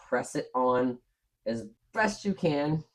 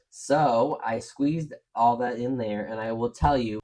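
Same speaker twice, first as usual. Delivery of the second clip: out of breath. Real, not acted. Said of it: "I'm literally out of breath".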